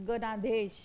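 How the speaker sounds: गणाधेश with a long, weighted णा; stress on न. Shown as a demonstration. Teacher to students, stressing the long joined vowel. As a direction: press on the णा in गणाधेश. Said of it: "न वर जोर देतो ना आपण".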